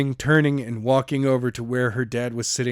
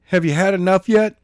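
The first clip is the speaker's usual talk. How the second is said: taunting question; 6 semitones higher, 6 dB louder than usual. Acted. Skylar taunts Jenna.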